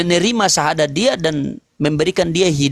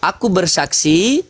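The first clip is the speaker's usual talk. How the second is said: recited shahada; slower than usual. Shown as a demonstration. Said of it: "Kalau bersyahadat itu".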